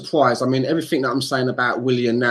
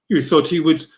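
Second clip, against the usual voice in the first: slightly French-accented, higher-pitched question; accidental French accent; 4 semitones higher than usual. Real, not acted. Fan mocking the transfer hype, French accent. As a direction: slip into a light French accent. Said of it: "I'm doing a French accent".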